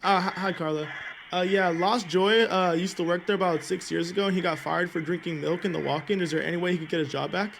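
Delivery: muffled, covering the mouthpiece; hand over mouth. Pretend. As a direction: talk through a cupped hand. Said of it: "you sound very muffled".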